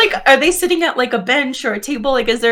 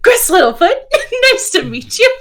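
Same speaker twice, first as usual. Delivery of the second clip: perky repeated intro; 10 semitones higher, 4 dB louder than usual. Acted. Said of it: "sidle over and be like".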